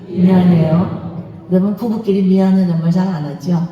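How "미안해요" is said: 미안해요 drawn out very slowly, rising at the end; group repeat. Shown as a demonstration. Congregation repeating the phrase slowly with a rising end. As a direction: stretch 미안해요 out slowly with a rise. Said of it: "해보세요".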